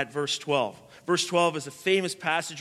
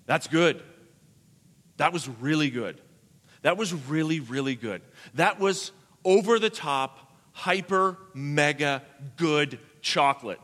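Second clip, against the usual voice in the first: mock rapture over chocolate; savoring delight; 3 semitones lower than usual. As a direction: build up to over the top praise. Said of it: "you're gonna say".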